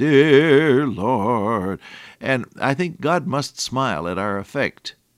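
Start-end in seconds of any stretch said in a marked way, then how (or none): 0.0-1.8 loud, pompous, affected, very pious praying tone. Speaker mimics how someone shifts tone on starting to pray, in a mock-pious, pompous prayer tone. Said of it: "he shifts into a very pious and pompous tone".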